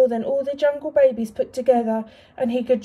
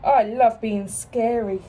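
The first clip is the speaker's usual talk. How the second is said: gleefully boastful; slower than usual. Acted. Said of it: "laughed Alan".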